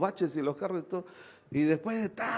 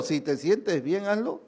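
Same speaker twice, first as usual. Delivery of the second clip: coaxing tempter; slower than usual. Retold or imitated. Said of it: "yo sé de qué espíritu viene".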